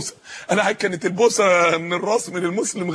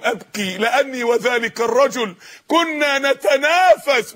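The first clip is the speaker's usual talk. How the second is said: slow solemn quote; much slower than usual. Acted. Quoting the captive's solemn words.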